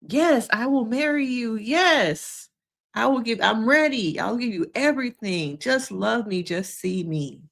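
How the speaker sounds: imitating a desperate plea that fades to a hush; mock begging. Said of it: "it felt like it was low-key begging".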